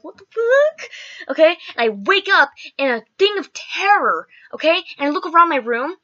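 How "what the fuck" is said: high, louder what the fuck; freaked out by the knife; shocked. Retold or imitated. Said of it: "I'm like".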